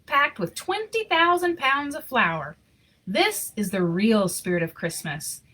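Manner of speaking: even, expressive read-aloud storytelling; story narration. Acted. Reading a Christmas picture book to children, storytelling voice. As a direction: tell the story to the kids gently.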